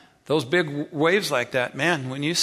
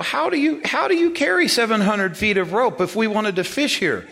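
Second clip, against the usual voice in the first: retold disbelief; 13 semitones higher, 7 dB louder than usual. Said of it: "I go".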